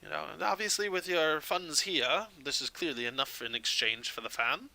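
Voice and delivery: a touch of polite, eager salesman; lightly acted, courteous gem buyer; lightly voiced shopkeeper. Game master plays the shopkeeper.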